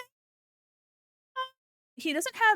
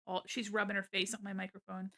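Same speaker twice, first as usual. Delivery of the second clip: usual speaking voice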